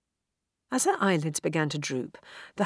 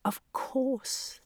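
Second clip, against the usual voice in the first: gasp of realisation; 7 semitones higher, 5 dB quieter than usual. A narrator's reading. Sudden realisation.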